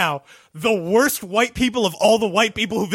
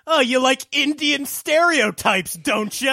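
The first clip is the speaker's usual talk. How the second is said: high, shouted mock warrior voice; Ghost Nation guy; 7 semitones higher, slower than usual. Imitating the Ghost Nation warrior taunting guests, high and shouted. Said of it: "the Ghost Nation is guy".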